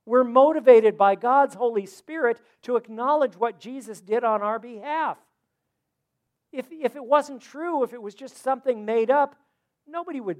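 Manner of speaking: loud, high-pitched preaching; preaching at full force. Acted. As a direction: drive every word home to the crowd. Pastor preaching to congregation.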